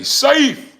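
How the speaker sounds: high, loud one-word exclamation; called-out catchphrase. Pretend. Telling viewers they're safe, called out high. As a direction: shoot it way up high.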